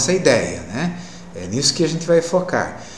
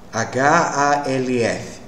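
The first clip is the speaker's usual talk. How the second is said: H A L F spelled out very slowly, letter by letter; much slower than usual. Shown as a demonstration. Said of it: "Olha a pronúncia da palavra metade".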